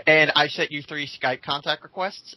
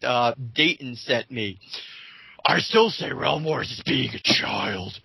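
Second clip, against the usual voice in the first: lightly gravelly-toned mock Batman read; slower than usual. Lightly voiced mock Batman reading the rival's comment. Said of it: "sounding like Batman in this".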